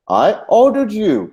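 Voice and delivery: "ordered" pushed high and drawn out; stress on ORDERED. Shown as a demonstration. Teacher shows it was an order, stress on ordered. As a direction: punch the word "ordered", slowly. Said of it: "मैंने तुम्हें हुक्म दिया था".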